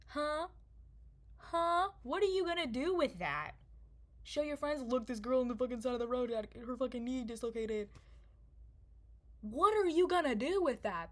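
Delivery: high, loud, exasperated questioning; indignant challenge. Acted. Storyteller addressing passers-by who photographed her, loudly indignant.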